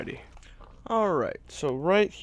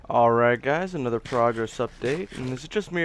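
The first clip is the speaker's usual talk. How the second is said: talking while eating; words round a bite of food; mouth full. Real, not acted. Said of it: "does every progress update come with me eating".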